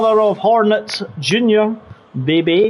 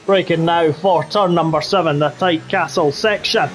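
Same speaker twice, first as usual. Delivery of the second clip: put-on Scottish accent. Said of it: "do the rest of the race in the Scottish accent".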